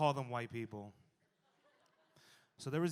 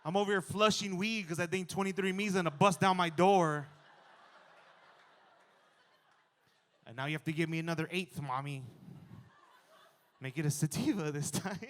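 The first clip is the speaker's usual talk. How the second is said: exasperated scolding; 4 semitones higher, 4 dB louder than usual. Retold or imitated. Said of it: "I was like".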